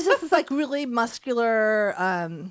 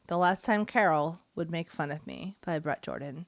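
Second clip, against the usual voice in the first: lower, softer read-aloud title; title announcement; 6 semitones lower, 6 dB quieter than usual. A narrator's reading. Host opening a listener's story, measured title reading. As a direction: announce the story and its author evenly.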